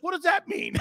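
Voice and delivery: high, cracking up mid-question; laughing question. Retold or imitated. Baffled player asking the joker, laughing. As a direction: ask it while breaking into laughter. Confused reply to teammate's joke.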